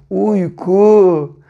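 "Uyku" in two held syllables, "uy" then "ku"; syllable-by-syllable reading. Shown as a demonstration. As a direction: sound out "Uyku" slowly for beginners. Teacher models blended word for pupils. ("Uyku" sözcüğünü heceleyerek okuma)

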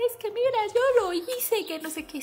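high, lightly voiced child begging mom; pleading little girl. Little girl pleading with her mom to believe her, high and earnest. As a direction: rush to convince mom, fading off. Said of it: "Mamá".

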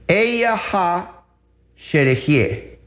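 "Eyeha sherehie" in two separated, phonetic chunks; approximate Hebrew pronunciation. Shown as a demonstration. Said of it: "esta palabra fonéticamente en el hebreo, más o menos".

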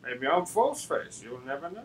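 sly villain murmur. Pretend. Playing the villain.

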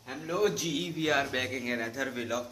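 lightly imitated vlogger intro, slow drawl on the English; a hint of Ducky Bhai's signature greeting, stretched slowly; slow catchphrase intro in a light Ducky Bhai style. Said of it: "Ducky भाई वाला intro".

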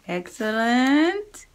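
ordinary talk

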